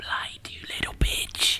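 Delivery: close, soft, breathy whisper. Hugging a wounded man in the game and whispering in his ear: whispering in character. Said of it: "I'm gonna whisper in his ear".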